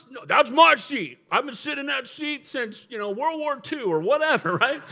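playful mock old-timer, amused; stubborn old man. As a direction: drag it out like a stubborn old churchgoer guarding his seat. Old man claims his seat.

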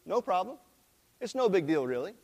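calm. Retold or imitated. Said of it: "very calmly says".

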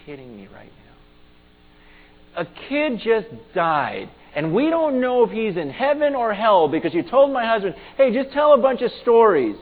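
retold tearful outrage. Wife confronting camp leaders over the dead kid, retold outrage. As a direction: imitate an upset wife confronting the leaders, building from hushed disbelief. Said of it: "with tears in her eyes".

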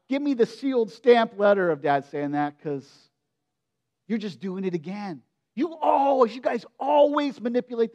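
a touch of sarcasm, rising to a mock shout at the end; cynical demand. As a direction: push back hard, fed up. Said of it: "my reaction is".

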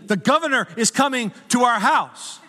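mock earnest sleep talker; wife talking in her sleep. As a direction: imitate the sleepwalking wife, half laughing. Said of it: "I'm like".

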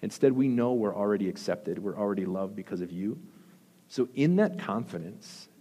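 earnest prayer voice; closing prayer. Acted. Pastor leads the church in prayer, earnest. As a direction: pray sincerely over the congregation.

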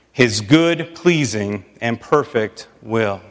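steady scripture reading; measured Bible reading. Acted. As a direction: read the verse with weight. Reads Romans 12 aloud.

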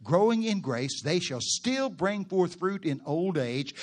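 slow, swelling preacher's scripture reading. Acted. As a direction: read the verse like a preacher building up.

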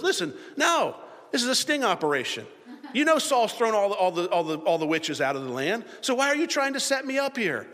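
high, indignant mock protest; suspicious protest. Witch accusing her visitor of a sting, high suspicious protest. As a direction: act out someone calling out a trap. Acts out witch suspecting a trap.

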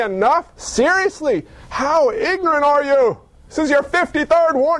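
high, incredulous scolding as if fed up; mock exasperation. Pastor imagining God scolding his people, mock exasperated. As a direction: play God losing patience, a touch hammed-up.

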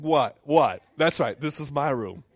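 put-on loud, defiant young believer; sassy attitude. Preacher imitating his early prayer life, defiantly loud. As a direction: claim your room with attitude. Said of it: "I was kinda talking like that".

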